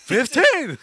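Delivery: high, very loud yell; screamed answer. Acted. Patient overrating pain to the doctor, screaming. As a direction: top the others with a bigger scream.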